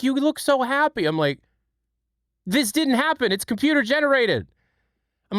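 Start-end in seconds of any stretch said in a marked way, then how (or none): 0.0-1.0 high-pitched mock wife voice; retold wife, pitched up; imitating wife. Wife's remark acted out in retelling. 2.5-4.5 high-pitched exasperated retort; acted-out objection in a higher voice; retold protest. His protest to wife acted out.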